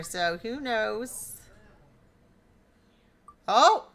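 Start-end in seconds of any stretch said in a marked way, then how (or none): 3.5-3.9 much higher, louder, slow cries of dismay; real groan of disappointment for a friend. Real, not acted. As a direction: cry out at the near miss. Wheel narrowly misses for Nathan.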